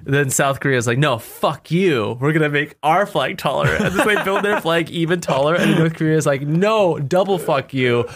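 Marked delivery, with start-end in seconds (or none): 1.0-3.7 mock defiant quote, laughing. Escalating flag feud, laughing. 6.4-8.1 mock escalating retort. Escalating flag feud, laughing.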